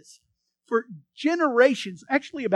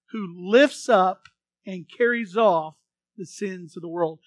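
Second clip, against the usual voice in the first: slow, louder, stressed phrasing; call and response; 3 semitones lower, 5 dB louder, slower than usual. Shown as a demonstration. Preacher leading congregation in slow, emphatic call and response. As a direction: lead the congregation in repeating it. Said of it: "repeat that with me".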